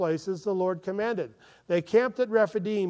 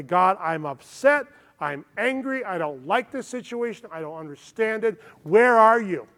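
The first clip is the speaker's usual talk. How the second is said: a rising, anguished outcry that peaks loud on "Where are you?"; acted lament; 2 semitones higher, 6 dB louder than usual. Preacher voicing a mourner crying out to God, building to a loud anguished cry. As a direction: let the frustration build and break out at the end.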